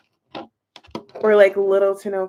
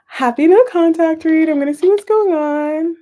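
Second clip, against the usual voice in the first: excited greeting; 6 semitones higher, 7 dB louder than usual. Real, not acted. Excited opening of the live read.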